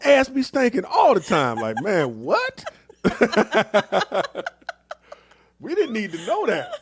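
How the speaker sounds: cracking up at the overshare; laughing. Real, not acted. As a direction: giggle out the gross-out joke. Laughing through a crude joke.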